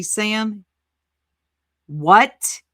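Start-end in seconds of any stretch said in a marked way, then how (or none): 1.9-2.6 loud, disbelieving "What?" with a rise; incredulous what. Real, not acted. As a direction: hit it in shock. Reacting to absurd claim.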